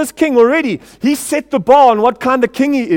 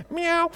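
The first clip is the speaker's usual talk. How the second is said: mock meow; 9 semitones higher, 6 dB quieter than usual. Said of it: "do that one".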